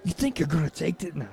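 put-on TV survivor voice, trailing into a whisper; rough impression that drops off to a hush; Rick Grimes. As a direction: imitate a menacing hero, fading right away. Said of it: "Do a Rick Grimes".

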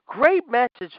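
high mocking "great message"; sarcastic praise. Real, not acted. Ranting fan mocks Vince's booking with sarcastic praise. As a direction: sneer it like fake praise. Sarcastic rant at WWE bookers.

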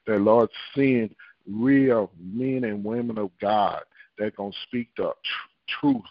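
fervent, rolling prayer delivery; praying earnestly to God; leading prayer. Real, not acted. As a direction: pray aloud over the people in steady repeated petitions. Leads a group prayer.

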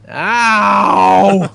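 imitated loud, drawn-out high yelp; kid's yelp. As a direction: yelp long and loud like a pestered kid. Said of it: "the sound of Jax going".

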